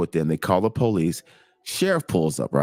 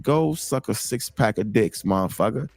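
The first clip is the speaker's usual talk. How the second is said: defiant comeback. Retold or imitated. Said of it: "I said it just like that".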